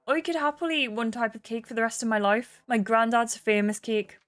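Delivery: lightly voiced Irish accent. The speaker answers Jade's cake question, in an Irish accent. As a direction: cake artist with a gentle Cork lilt.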